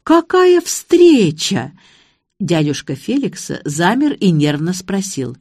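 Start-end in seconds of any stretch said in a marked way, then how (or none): 0.0-1.7 slow, high, loud mock-cheerful greeting; high drawn-out exclamation; exclaiming. A narrator's reading. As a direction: stretch out a fake-delighted hello. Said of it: "и воскликнула".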